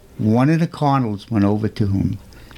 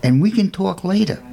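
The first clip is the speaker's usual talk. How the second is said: gently; 7 semitones higher than usual. Acted. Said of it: "The priest said gently".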